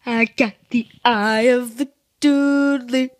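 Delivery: mock dramatic catchphrase. Vlogger ending with his channel catchphrase, hammed up. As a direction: intone it like a mock epic motto.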